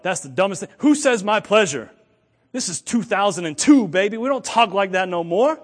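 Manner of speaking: loud, incredulous mocking of coworkers; scornful coworkers. Coworkers scoffing at the new rule, scornful.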